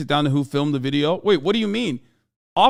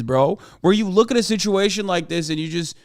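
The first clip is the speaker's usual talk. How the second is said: ordinary talk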